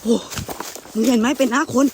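real terror, voice shooting up in panic; scared shout at a face in the woods; panicked fear. Real, not acted. Seeing a face in the forest.

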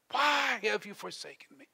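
anguished plea dropped from a shout; subdued, forsaken plea; spent cry of abandonment. Acted. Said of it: "Jesus cried out".

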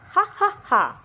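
ha ha like a cheeky monkey; monkey laugh. Acted. Chimpu the monkey laughing as he introduces himself.

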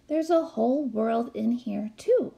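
bright jump up on "too"; proud eager exclamation; exclaimed. Acted. Lily showing Millie a book, eager exclamation. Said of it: "exclaimed Lily".

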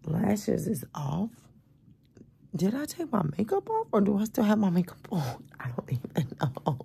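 soft unvoiced whisper. Real, not acted. Sleepy vlogger whispers to viewers about her makeup. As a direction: whisper it half-awake.

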